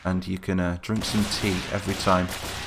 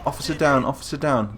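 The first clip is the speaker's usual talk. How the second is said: alarmed call; 5 semitones higher than usual. Real, not acted. Calling out officer killed.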